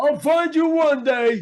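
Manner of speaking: very high-pitched, loud put-on voice. Sending a message to Myra and Capri as asked: Chubo voice. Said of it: "a special message that he would like to send to Myra and Capri?".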